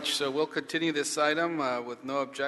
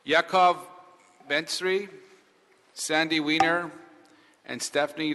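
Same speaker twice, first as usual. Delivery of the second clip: calling out names; 3 semitones higher, 5 dB louder than usual. Real, not acted. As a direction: call names out to the room. Calling up the next speakers.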